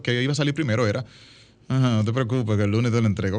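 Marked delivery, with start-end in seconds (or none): 1.7-3.4 grudging, sarcastic-edged promise; acted irritation, held back under the words; annoyed. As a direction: promise it while clearly annoyed. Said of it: "Como yo estoy enojado, la entonación natural que salió".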